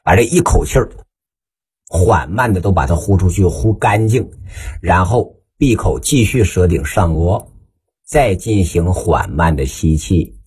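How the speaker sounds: guided breathing exercise. Shown as a demonstration.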